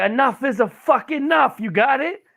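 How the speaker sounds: loud, high, slow furious yell; triggered outburst. Retold or imitated. Grandpa fed up with the berry flicking, angry shouting. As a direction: explode as an annoyed grandpa imitation. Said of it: "He got triggered".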